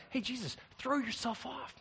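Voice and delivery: high, loud, eager coaxing voice; a devil hyping up a cheap miracle. Acted. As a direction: sell the stunt like a slick tempter. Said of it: "Satan's like".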